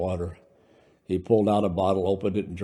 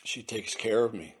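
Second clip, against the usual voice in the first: softer, low confiding voice; 2 semitones higher, 6 dB quieter than usual. Acted. Brando confiding to Louis about the fairy, low voice. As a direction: say it low, almost secretive. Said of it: "Brando said in a low voice".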